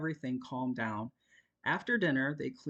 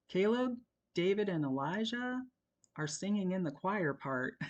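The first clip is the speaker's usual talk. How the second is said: put-on higher boy's voice; sheepish teen; 6 semitones higher than usual. A narrator's reading. A boy's sheepish confession. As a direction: son drops bad news and flees. Son drops last news.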